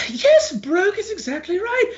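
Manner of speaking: high-pitched smug merchant; a greedy merchant, up in a high voice. Acted.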